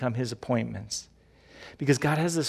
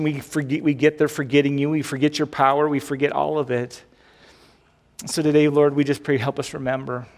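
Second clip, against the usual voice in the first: louder, earnest pastor's prayer; fervent closing prayer; 3 dB louder than usual. Acted. Pastor prays over his congregation, fervent and earnest. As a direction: plead with God on the church's behalf.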